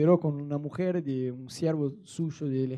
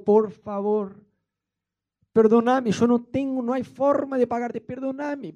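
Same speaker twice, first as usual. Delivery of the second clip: pleading; 4 semitones higher, 3 dB louder than usual. Acted. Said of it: "le suplicó y le rogó".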